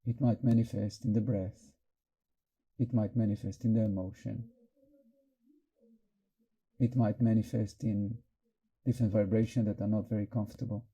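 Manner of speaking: calm, unhurried meditation guidance; guided meditation. Real, not acted. Teacher helping the group notice nervousness, in calm guided meditation. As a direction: guide their attention inward, leaving long pauses. Guides attention to inner state.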